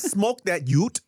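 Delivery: high, drawn-out mimicry of the girl; the girl's voice. Repeating what the girl said to a friend, drawn-out imitation. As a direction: imitate her, stretching each word. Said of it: "So she says".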